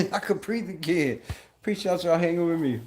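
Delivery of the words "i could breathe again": laughing. Real, not acted. Laughs while repeating line.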